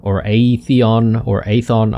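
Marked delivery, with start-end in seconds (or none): 0.2-1.2 Aethon drawn out as "ay-EE-thon"; alternative pronunciation. Shown as a demonstration. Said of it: "not sure how to pronounce that". 1.4-2.0 Aethon said as "AY-thon"; alternative pronunciation. Shown as a demonstration. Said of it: "not sure how to pronounce that".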